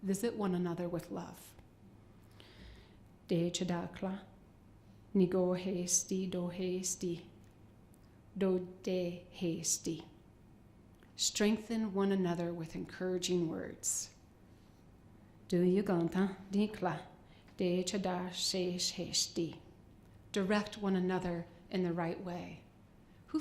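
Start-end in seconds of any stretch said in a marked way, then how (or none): 3.3-10.0 De chadakla ni go hesti do hesti slow, syllable by syllable; staccato. Shown as a demonstration. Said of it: "I'm gonna read them syllable by syll-, syllable by syllable". 15.5-19.6 de chadar shesh hesti each syllable apart; staccato. Shown as a demonstration. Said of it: "I'm gonna read them syllable by syll-, syllable by syllable".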